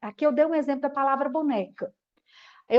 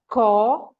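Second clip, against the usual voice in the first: COPO split into CO... PO, louder; marked syllables; 3 semitones lower, 6 dB louder than usual. Shown as a demonstration. Teacher showing a child how to mark syllables, loud and segmented. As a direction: punch each syllable of COPO separately with a pause. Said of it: "fala e vai marcando pra mim".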